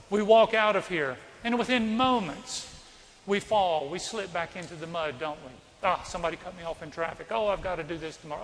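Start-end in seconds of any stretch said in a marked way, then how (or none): 5.8-8.4 mock grumbling. Acts out everyday grumbling.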